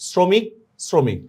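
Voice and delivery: শ্রমিক twice as "sro-mik", rising then falling; S and round O in শ্রমিক; O vowel shown. Shown as a demonstration. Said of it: "স এর ফলে ওকার লাগবে".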